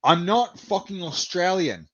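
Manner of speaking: mock an offended Brit, drawn out; pissy British guy. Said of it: "gets pissy with me".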